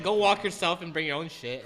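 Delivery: mock irritated, voice pushed up; retold pissed-off rant. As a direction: play up the fed-up bagger griping. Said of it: "that's when I get pissed".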